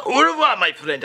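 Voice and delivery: hammed-up farewell. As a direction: fling out au revoir theatrically. Farewell in French.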